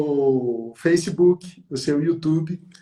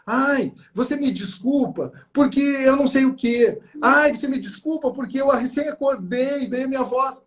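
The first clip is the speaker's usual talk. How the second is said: mock apologetic whine; 7 semitones higher than usual. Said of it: "tem gente que diz assim".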